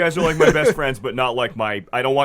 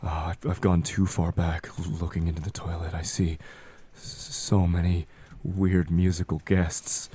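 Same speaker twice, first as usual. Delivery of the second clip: halting, slightly hushed seer; lightly voiced prophet with long pauses; prophecy voice; 4 dB quieter than usual. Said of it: "Prophecy voice".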